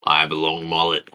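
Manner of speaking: put-on Queensland Australian accent; Barry. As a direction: lightly play an Aussie bogan describing himself. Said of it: "You're too good at that accent".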